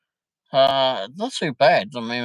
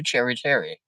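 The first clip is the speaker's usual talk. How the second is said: posh accent. Shown as a demonstration. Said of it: "I can do it in a posh accent".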